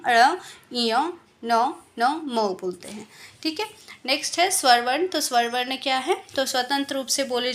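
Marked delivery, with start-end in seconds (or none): 0.1-1.1 नासिका से अ, इय stretched slowly through the nose; nasal vowel demo. Shown as a demonstration. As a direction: draw out अ, इय nasally for the class. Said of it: "नासिका से हम लोग अंग". (नाक से खींचकर बोला गया स्वर)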